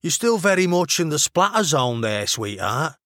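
blasé Mancunian aside; Mancunian accent. A narrator's reading. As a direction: warn casually in a Manchester accent. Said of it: "the over-enunciated vowels she was already learning".

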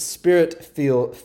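"spirit feel" in a southern accent, filled said as feel; southern accent slip. Real, not acted. Preacher's southern accent slips out mid-phrase, southern accent. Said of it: "that was my little, uh, southern accent coming out".

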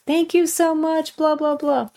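high, drawn-out mock tearful thanks; imitating bawling thanks. Client calling the pool guy, mock bawling thanks. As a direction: play the client sobbing gratitude down the phone. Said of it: "she calls me on the phone just bawling".

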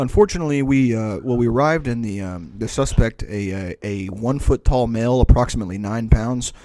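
lightly put-on police spokesman; halting official report, played for laughs; mock cop statement. Cop describing a shooting to the press, mock-official. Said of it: "describe it like a shooting, the way that cops talk".

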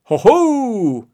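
high, loud "ho, ho" entrance; sudden triumphant cry. A narrator's reading. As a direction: burst in grandly. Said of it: "said a voice all of a sudden".

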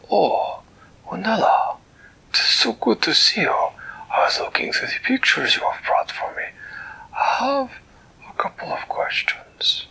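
a delighted, fussy creature greeting a friend; Flibbertigibbet's voice. Acted. Storyteller voicing Flibbertigibbet greeting Winella, high and delighted.

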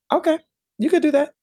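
very high, light mom voice; unflinching mom. Retold or imitated. Mom accepting her kid's big goal, easy assurance. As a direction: imitate mom agreeing without a flinch. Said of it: "And she said".

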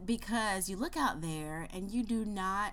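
put-on podcast voice; exaggerated cartoon intonation. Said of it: "Why are you talking like that?".

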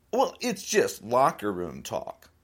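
mocking Trump's excuse. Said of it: "His excuse was".

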